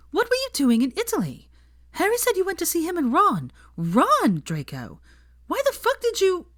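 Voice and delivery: high, loud angry rant; scolding. A narrator's reading. Hermione berating Draco about the trip, angry. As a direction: tear into him, rising.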